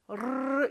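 "르르" as a rolled, trilled R; rolled tongue sound. Shown as a demonstration. Teacher illustrates the flap for water, rolled tongue. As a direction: roll the tongue on "르르". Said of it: "혀를 굴리는 것처럼".

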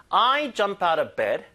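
slow, jump and bed pushed loud; stressed demo. Shown as a demonstration. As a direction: hammer each stressed word slowly. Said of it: "강세 다섯 군데입니다".

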